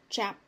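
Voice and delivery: "chapter" with P held shut, long gap before ter; unaspirated P. Shown as a demonstration. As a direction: close the lips on the P in "chapter", no puff. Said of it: "Unaspirated means".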